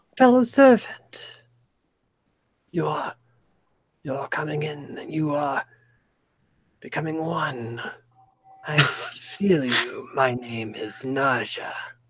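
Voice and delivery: whispered voice. A player meditates on an amulet and hears it speak: Naja's whisper inside your mind. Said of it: "you hear the whisper of a voice inside your mind".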